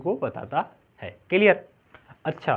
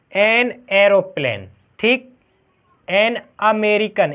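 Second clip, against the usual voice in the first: slow, drawn-out an aeroplane and an American; slow examples; much slower than usual. Shown as a demonstration. Teacher reading examples slowly for pupils. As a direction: read the examples slowly for the class. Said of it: "example में समझो".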